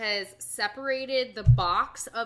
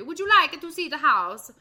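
higher, louder mock Italian old lady; 7 semitones higher, 9 dB louder than usual. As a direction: redo the line as an Italian old woman, hand gesture and all. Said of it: "but she's Italian in the movie".

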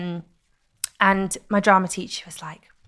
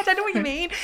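high-pitched mock Scouse; Scouse accent; 12 semitones higher, faster than usual. Echoing a friend's teasing, exaggerated high Scouse accent. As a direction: throw the phrase back in squeaky Scouse. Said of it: "to do a Scouse accent".

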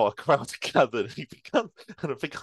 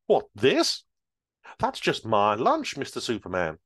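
put-on old lady. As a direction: play innocent like a granny. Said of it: "old lady replies".

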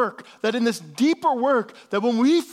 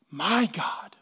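quiet whisper; 3 semitones lower, 4 dB quieter than usual. Real, not acted. Intimate aside during sermon.

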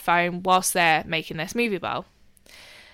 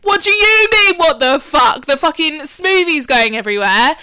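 higher, louder exasperated shout; retold angry rant; 5 semitones higher, 7 dB louder than usual. Sister scolding brother for the mess, angry. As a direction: berate him at full volume. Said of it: "And I'm like".

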